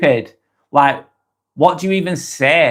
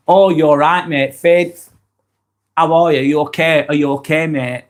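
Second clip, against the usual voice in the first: put-on matey concern; fake friendly. Shown as a demonstration. Toxic coworker checking on a mate, fake friendly. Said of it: "there's that, the fakeness".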